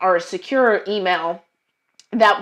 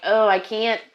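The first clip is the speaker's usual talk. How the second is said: tense inner pep talk, pitched up; inner self-warning; 2 semitones higher, 4 dB louder than usual. Retold or imitated. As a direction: hiss a warning at yourself not to blurt it out. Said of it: "part of it is it's like".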